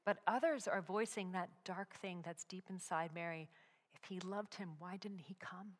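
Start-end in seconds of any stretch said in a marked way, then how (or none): 3.9-5.8 whisper. Acted. Dark doubting voices in crowd.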